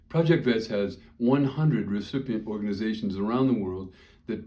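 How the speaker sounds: serious fundraising appeal; sincere appeal. Real, not acted. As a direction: speak from the heart for the cause. Shifts to serious charity appeal.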